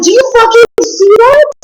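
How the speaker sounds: high, alarmed shout at the water; freaked-out yell. Retold or imitated. To the guy in the boat, spotting a monster, high panicked shout. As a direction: blurt it in panic at what you see.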